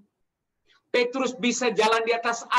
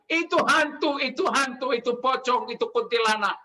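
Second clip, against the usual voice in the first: mock frightened cry; 2 semitones higher than usual. Preacher imitates listeners mistaking Jesus for ghosts, mock frightened cry. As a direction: lightly act out someone scared of ghosts. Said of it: "Anda teriak-teriak takut karena Yesus".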